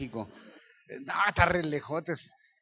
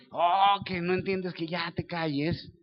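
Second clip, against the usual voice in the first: regaño imitado y lento; discípulos exasperados; slower than usual. Retold or imitated. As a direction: alarga el reproche con fastidio fingido. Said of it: "los discípulos otra vez". (exasperación fingida, arrastrando las palabras)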